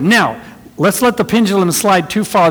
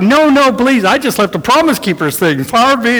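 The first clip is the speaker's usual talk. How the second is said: humble and polite; 6 semitones higher than usual. Retold or imitated. Drivers fresh from Promise Keepers declining to go first, in high gushing humility. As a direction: insist sweetly, hand on heart. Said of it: "Everybody was like".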